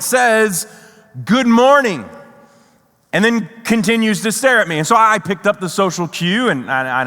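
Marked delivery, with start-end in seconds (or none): 1.2-2.1 pointed, deliberate greeting; very emphatic. Retold or imitated. Agent correcting traveler who skipped the greeting, very emphatic. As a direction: say it as though making a point. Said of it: "very emphatically, as though making a point".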